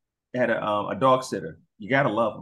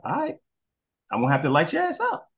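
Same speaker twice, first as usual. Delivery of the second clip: dog warning; 6 semitones higher, faster than usual. Retold or imitated. Dog voiced threatening the kids.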